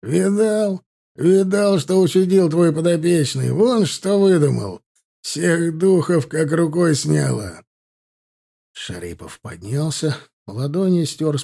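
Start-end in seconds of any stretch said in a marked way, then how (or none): 0.0-7.6 high, proud boasting; delighted, raised-pitch bragging; grinning ear to ear. A narrator's reading. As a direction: crow about the lad with a wide grin. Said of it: "улыбаясь во все тридцать два".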